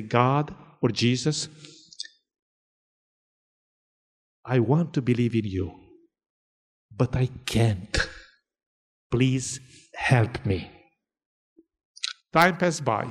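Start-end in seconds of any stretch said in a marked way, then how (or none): 0.0-10.7 slow, low retold prayer with long pauses; lightly acted, earnest prayer, haltingly slow; pleading prayer. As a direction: gently act out a halting plea to God.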